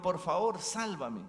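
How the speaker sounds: pleading. Acted. Climber pleads with God.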